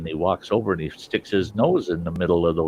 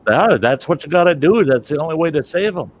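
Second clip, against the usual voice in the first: higher, louder acted insistence; insistent; 7 semitones higher, 5 dB louder than usual. Doctor tells reluctant Tonto the only remedy, loud insistence. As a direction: press it home to a reluctant helper.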